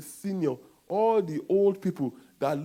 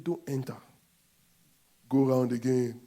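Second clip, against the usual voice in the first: hushed stern command; 4 semitones lower than usual. Acted. God voiced softly.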